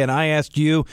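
ordinary delivery

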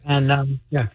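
hollow speakerphone sound. Real, not acted. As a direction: voice picked up from a distance. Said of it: "'Cause you sound like you're on a speakerphone".

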